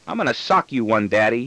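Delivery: put-on mild, understated child's squeal; frustrated squeal. Outsmarted son threatening Daddy, a mild frustrated squeal. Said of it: "he squeals in frustration".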